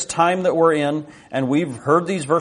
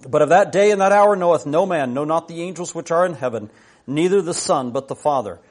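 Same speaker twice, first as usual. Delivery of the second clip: raised, declaimed Bible reading; scripture reading; 3 semitones higher than usual. Acted. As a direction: read the verses out solemnly to a congregation. Reads scripture aloud to congregation.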